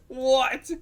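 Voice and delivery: high, loud startled what; shocked what. Acted. Sister hearing she lost mom tonight, shocked what. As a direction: jolt up in disbelief.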